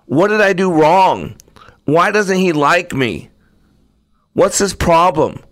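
put-on a wronged child begging to be let out; upset pleading. Teacup in the fire begging the potter, hurt and pleading.

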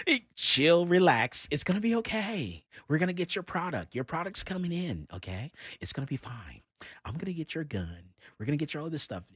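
calm them down gently, almost hushed; soothing a customer. Retold or imitated. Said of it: "massaging egos".

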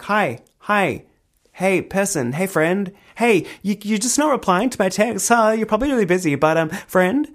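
put-on high, wheedling singsong of a drunk friend; drunk needy texter. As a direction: coax them, pitched high and clingy. Imitating drunk self texting.

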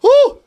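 sudden high, loud "woo"; composing whoop. Real, not acted. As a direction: let out a whoop to shake off tears. Shaking off tears to regain composure.

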